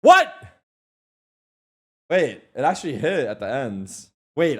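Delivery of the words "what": surprised. Real, not acted. Disbelief at chat claim.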